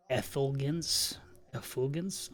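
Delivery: effulgence sounded out with a questioning rise; unsure pronunciation. Real, not acted. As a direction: try out effulgence slowly, unsure of it. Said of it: "I'm not sure how that one goes".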